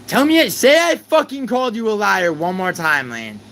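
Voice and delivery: high, loud furious challenge; angry yelling. Real, not acted. Streamer daring Lane to repeat the liar claim, furious high yell. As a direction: dare her to say it again. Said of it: "just 'cause I'm yelling".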